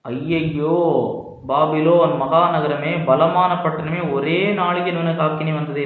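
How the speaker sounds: stretched-out wail of woe, mildly performed; acted lament. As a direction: lament like a mourner, with a drawn-out call. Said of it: "எப்படி அழுவாங்களோ". (நீட்டிப் புலம்புவது போன்ற நடிப்பு)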